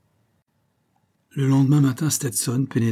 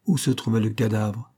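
mechanical repeat. Acted. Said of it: "répéta machinalement Stetson".

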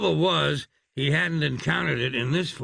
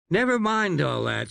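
a touch of irritation, raised; irritably; 5 semitones higher than usual. Acted. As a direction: brush them off, annoyed. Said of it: "said Stephen irritably".

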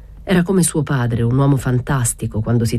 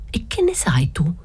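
whisper; 4 semitones higher, 3 dB quieter than usual. A narrator's reading. Assunta whispering near the soldiers.

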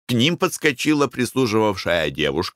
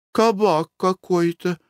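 disdainful wife; 10 semitones higher, slower than usual. Acted. Wife balks at shabby tavern.

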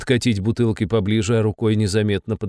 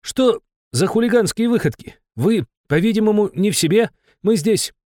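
raised, indignant official tone; indignant young activist; 11 semitones higher than usual. Acted. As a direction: scold like a self-important activist. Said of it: "отчеканил пацан".

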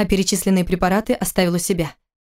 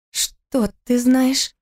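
higher, very slow wary question; 5 semitones higher, much slower than usual. Acted. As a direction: she asks warily, afraid of what he knows. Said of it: "спросила она настороженно". (настороженно, медленно и выше)

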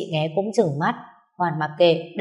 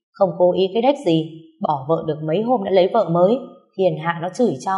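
scornful louder rant; 3 dB louder than usual. Acted. Friend berating her for defending him.

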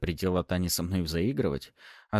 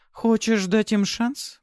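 slow, much higher curious voice; intrigued lady; 5 dB louder, much slower than usual. A narrator's reading. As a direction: lean in with interest. Intrigued noblewoman.

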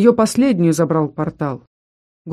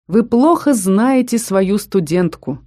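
firmly; 3 semitones higher, slower than usual. Acted. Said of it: "твёрдо проговорил король".

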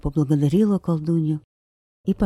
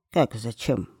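indignant; 3 semitones lower than usual. Acted. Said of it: "возмутилась колдунья".

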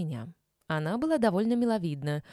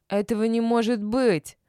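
louder, bewildered cry; bewildered exclamation; 4 semitones higher, 7 dB louder than usual. A narrator's reading. Woman cries out that her man can't be married, bewildered. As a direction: blurt it out in disbelief. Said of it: "воскликнула она растерянно".

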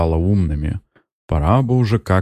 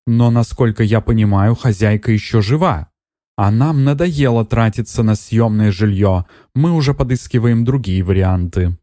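higher, insistent complaint of a buyer; complaining buyer; 4 semitones higher than usual. Acted. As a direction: press her, you promised. Buyer woman pressing Netta. (покупательница с упрёком, выше голосом)

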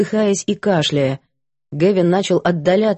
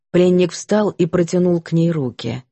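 ordinary delivery

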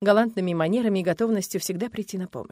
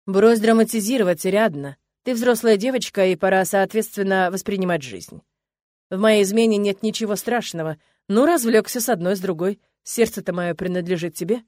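lightly voiced husband, condescending and louder; dismissive husband; 5 dB louder than usual. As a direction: brush her off like a bored husband. (снисходительный муж, слегка озвученный)

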